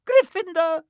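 high, loud shout of the house name; hat shouting. A narrator's reading. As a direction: announce it to the whole hall. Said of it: "shouted the hat".

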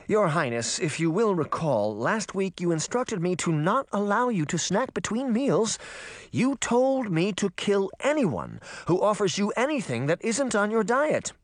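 high-pitched merman attendant; anxious royal servant. Acted. Merman reminds the princess of her diet, high-pitched servant. Voices the skinny merman assistant.

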